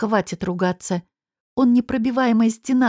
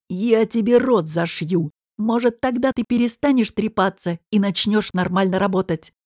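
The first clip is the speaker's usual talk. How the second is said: gruff boss. Acted. Boss threatens to sew her mouth shut, lightly gruff.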